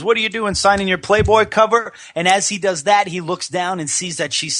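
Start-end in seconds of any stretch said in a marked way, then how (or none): 0.0-1.9 high-pitched imitation of an excited wrestler; Ric Flair impression. Host imitating wrestler questioning the signing, high excited voice. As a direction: put on the wrestler's raised voice. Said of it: "he goes".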